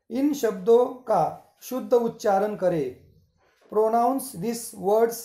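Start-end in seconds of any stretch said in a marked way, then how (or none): 3.7-5.2 each word drawn out slowly for the class; slow dictation. Shown as a demonstration. Teacher dictating instructions to students, very slow. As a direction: spell it out slowly so students can write.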